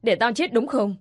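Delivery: a hint of a scolding mother; angry mother. Mother scolding her daughter for leaving, mild anger.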